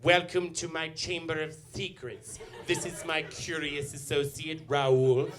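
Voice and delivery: lightly voiced campy horror host; Vincent Price villain. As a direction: purr it like a theatrical villain. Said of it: "Like any Vincent Price movie, he's there and he's like".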